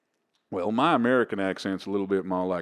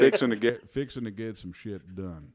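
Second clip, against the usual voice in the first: Texan cowboy accent. Shown as a demonstration. Comic practising his American accent for hosts, cowboy drawl. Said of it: "I gotta slow it right down".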